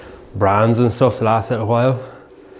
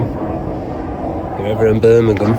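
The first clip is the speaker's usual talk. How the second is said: put-on Birmingham accent; slower than usual. Vlogger recommending a gym in Birmingham, attempted Birmingham accent. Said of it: "I think that's the Birmingham accent".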